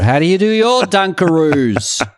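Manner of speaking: the cartoon kangaroo from the cookie ad, high and bouncy; Dunkaroos kangaroo. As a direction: pitch it up like a cheery ad mascot. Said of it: "I was the voice of the Dunkaroos kangaroo".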